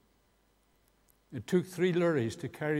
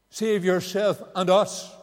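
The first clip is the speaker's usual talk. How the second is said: loud, slow, higher mocking cry; retold shout; 6 semitones higher, 10 dB louder, slower than usual. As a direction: hurl it at him from the cross, slowly and loud. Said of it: "shouted at him".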